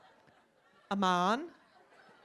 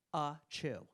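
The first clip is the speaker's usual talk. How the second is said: quiet fake sneeze; 7 semitones lower, 7 dB quieter than usual. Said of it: "she literally says".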